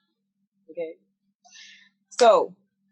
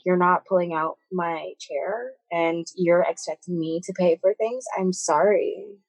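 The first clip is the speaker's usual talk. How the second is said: put-on Karen accent. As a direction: lightly put on a Karen accent for an indignant customer act. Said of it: "That's actually a great accent".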